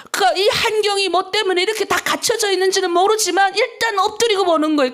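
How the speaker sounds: normal talking voice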